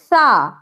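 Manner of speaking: سا flowing out on the breath; airy ث. Shown as a demonstration. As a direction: breathe سا out gently. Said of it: "ہوا کے ساتھ آواز آپ کی بہتے ہوئے نکل جائے گی". (ہوا کے ساتھ بہتی سا)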